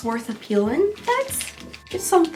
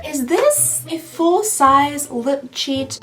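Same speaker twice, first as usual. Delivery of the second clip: surprised; 4 semitones higher than usual. Real, not acted. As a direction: greet it like an unexpected friend. Surprised by full-size product.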